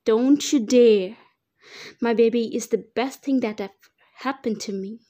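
put-on fierce mother yelling to protect her baby; shouted at him. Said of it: "I shouted at him".

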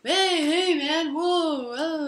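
mock alarmed "whoa" from a splashed stranger; startled protest. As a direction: imitate a guy jolted by spilled coffee. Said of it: "the guy's like".

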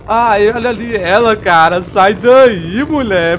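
loud panicked yelling at the monster; frightened shout. Real, not acted. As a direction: yell in real fright. Monster appears in horror game.

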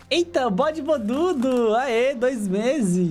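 drawn-out happy shout-out; slow cheerful cheer. Real, not acted. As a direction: stretch the greeting out gleefully. Cheering a chat subscriber.

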